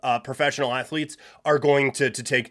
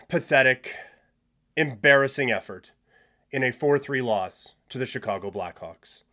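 mock solemn eulogy. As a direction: intone it like a pretend funeral. Mock funeral opening.

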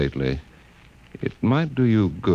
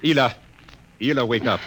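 loud, high call to wake her; 6 semitones higher, 3 dB louder than usual. Acted. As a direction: shake her awake with your voice. Waking his wife from dream.

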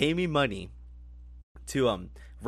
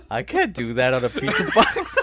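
laughing retelling; 2 semitones lower, 5 dB louder than usual. Retold or imitated. Retelling the pizza worker's refusal to friends, laughing. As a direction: imitate the pizza guy through laughter. Retells prank while cracking up.

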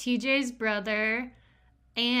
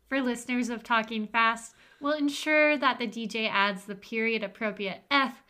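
ad read. Acted. Reads a mock wedding ad.

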